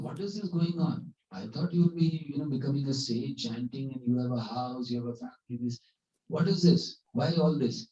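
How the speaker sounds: dismayed questioning. Retold or imitated. Guru finds disciple with house and family, dismayed questioning. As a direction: imitate a guru demanding an explanation.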